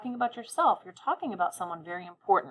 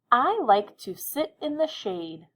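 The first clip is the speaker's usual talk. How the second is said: slow, higher, clear dictation; 5 semitones higher, 3 dB louder than usual. Shown as a demonstration. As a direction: read it slowly for writing. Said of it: "I'll say it again, listen carefully".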